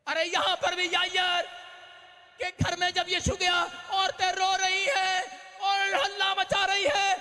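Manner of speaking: loud, high sermon delivery; a pastor shouting the story of Jairus; fiery preaching. Acted. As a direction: preach it out to the whole church. Preaching at full force.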